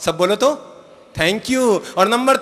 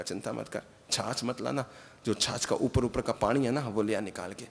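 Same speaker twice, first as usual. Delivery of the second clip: much softer, lower, confiding; hushed aside; 5 semitones lower, 11 dB quieter than usual. Retold or imitated. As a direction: tell her the trick under your breath. महाराज चुपके से समझाते हैं. (भाभी से धीरे से फुसफुसाकर सलाह)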